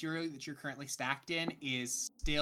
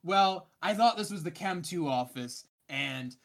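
Lucia's voice; 3 semitones higher, 4 dB louder than usual. Acted.

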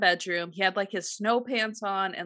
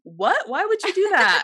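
higher and louder, hammed-up disbelief; mock shocked; 9 semitones higher, 6 dB louder than usual. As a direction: rise in pitch like an astonished husband. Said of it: "He goes".

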